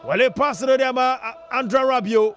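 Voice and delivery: quick excited radio commentary calling the match; live play-by-play. Acted. Radio host calling the France Sweden match live, excited. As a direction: ride every pass like a live radio caller.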